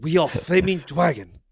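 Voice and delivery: drawn-out imitation of an Asian accent; mock Asian accent. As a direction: put on a hammed-up Asian accent. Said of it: "can't do the Asian accent".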